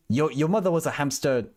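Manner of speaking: attempted Monty Python French accent. Streamer quoting Monty Python, failed French accent. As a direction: try the taunt in a shaky attempt at French. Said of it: "Monty Python".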